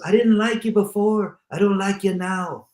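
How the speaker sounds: a hint of mock grudge from the coffin; dead man's jab. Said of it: "He goes".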